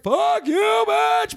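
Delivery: high, squealed imaginary comeback; hammed-up high-pitched fury; mock outrage. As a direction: squeal the insult you never said. Imagined angry retort she didn't say.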